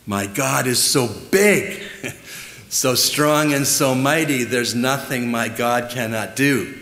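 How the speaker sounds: punchy, high-spirited recitation of a chorus; exuberant chorus recital. Shown as a demonstration. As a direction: recite it with childlike gusto. Recites a childhood chorus with relish.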